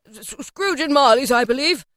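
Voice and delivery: lightly voiced hesitant gentleman; portly gentleman. A narrator's reading. Portly gentleman's greeting as recalled.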